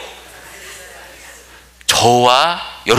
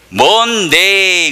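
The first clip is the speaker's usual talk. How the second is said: laughing punchline; 6 semitones higher, much slower than usual. Retold or imitated. Joke punchline, Monday.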